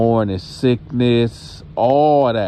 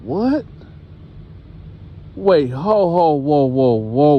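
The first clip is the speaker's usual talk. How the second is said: stunned daughter; 4 semitones higher than usual. Retold or imitated. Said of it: "So she like".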